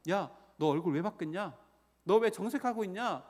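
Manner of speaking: acted-out scolding question; mild rebuke. God questioning Cain, retold as a mild rebuke. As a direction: challenge him with a mild mock reproach. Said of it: "질책합니다".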